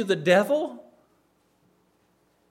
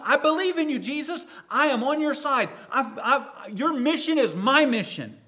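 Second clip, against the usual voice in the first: earnest pledge; 4 semitones higher than usual. Acted. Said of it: "Wouldn't that be our response?".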